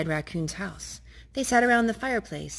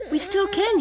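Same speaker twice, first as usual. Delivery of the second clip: Raccoon voice; 14 semitones higher, 5 dB louder than usual. Acted.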